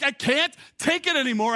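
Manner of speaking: high-pitched mock breakdown; exasperated outburst. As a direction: act out a parent snapping over a noisy toy. Acting out snapping at noisy toy.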